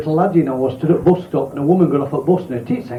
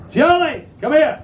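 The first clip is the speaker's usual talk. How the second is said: mum calling; 10 semitones higher, slower than usual. Retold or imitated. Mother calls the boy.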